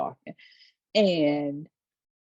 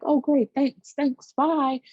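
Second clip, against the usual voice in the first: mock sarcastic brush-off; 8 semitones higher, 5 dB louder, slower than usual. She sarcastically brushes him off.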